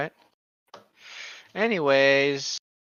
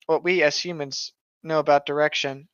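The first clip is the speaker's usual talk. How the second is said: story narration. Acted. Reading a creepypasta aloud.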